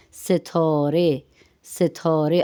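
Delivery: ستارے as "se-thaw-re", ending in a clear e; Persian e ending. Shown as a demonstration. Teacher models Persian star for Urdu speakers, e-ending pronunciation. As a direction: end ستارے on e, with a rounded middle vowel. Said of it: "آخر کے ہا کو اے کے صورت میں".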